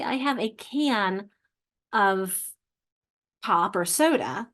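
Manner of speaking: can said with a clear open ah, I have a can of pop; slow, careful can with a full vowel. Shown as a demonstration. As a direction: spell out can with its ah sound. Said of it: "notice you hear the, the ah sound pretty clearly".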